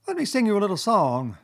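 high-pitched speechifying Chief Weasel; high squeaky voice. A narrator's reading. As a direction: address the banquet in a high squeak. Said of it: "began in a high, squeaky voice".

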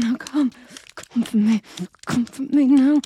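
building loud urgent command. Acted. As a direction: push her orders over the top. Commanding at the climax.

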